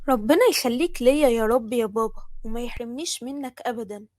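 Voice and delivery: loud, heartfelt blessing; fervent gratitude. Acted. Daughter blessing her father for standing up for her, fervently grateful. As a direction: thank him with full, loud feeling.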